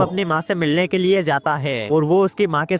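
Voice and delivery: steady, evenly pitched plot narration; movie explainer voiceover; story recap narration. A narrator's reading. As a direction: narrate the plot in a continuous, regular rhythm.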